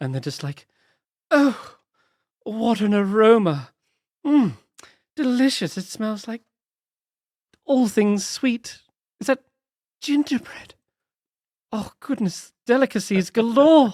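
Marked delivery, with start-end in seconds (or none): 1.3-13.9 put-on high, slow, drunk-sounding queen voice. Voicing a bee queen enchanted by scents: regal, intoxicated bee queen voice. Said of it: "Polynella has this kind of regal, um, voice".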